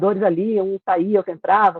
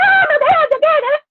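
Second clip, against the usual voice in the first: shrill, squawky hen voice, much higher, louder; 7 dB louder than usual. Retelling the line she delivered when her chance came, in a shrill hen voice. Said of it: "fiz uma voz esganiçada, né, de galinha".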